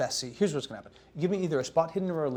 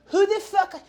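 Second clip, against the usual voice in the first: shout; 10 dB louder than usual. Acted. Chef startled by strangers.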